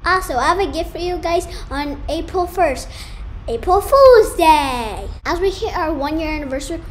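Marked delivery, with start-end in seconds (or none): 3.5-5.1 shouting. Real, not acted. Prank announcement shouted.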